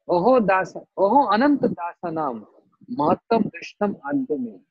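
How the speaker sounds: reciting in lifted, wondering voice; astonished. Acted. Durvasa marvelling at the Lord's servants, astonished. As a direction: exclaim the verse in amazement. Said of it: "When you see something astonishing".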